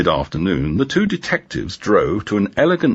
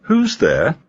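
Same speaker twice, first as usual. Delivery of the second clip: high, sweet, honeyed voice; a woman's sweet, inviting hello to the police at her door; seductive; 10 semitones higher than usual. Acted. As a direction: coo it like honey through the intercom. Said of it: "her voice almost seductive".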